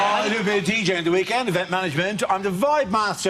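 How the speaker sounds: a hint of Welsh DJ bragging; Welsh accent. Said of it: "that Welsh accent".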